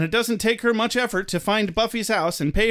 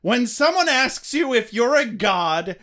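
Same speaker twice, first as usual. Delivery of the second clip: mock movie quote; 3 semitones higher, much slower than usual.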